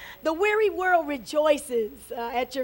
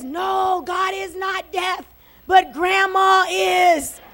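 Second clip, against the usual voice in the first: put-on raised young boy's comeback, loud last words; mock shouted retort; 3 semitones higher, slower than usual. Younger boy answering his brother, mock shouting. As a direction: build to a loud, drawn-out punchline. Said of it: "why you keep talking so loud and shouting".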